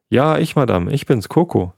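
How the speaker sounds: höher und freudig gerufen; froh, endlich gefunden zu werden; freudig rufen. Acted. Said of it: "rief Coco freudig". (Coco ruft freudig das Eichhörnchen an)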